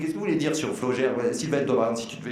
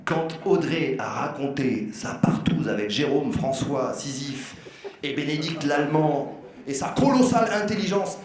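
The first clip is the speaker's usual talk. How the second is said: put-on Belgian accent; 3 semitones higher than usual. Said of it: "avec un accent belge".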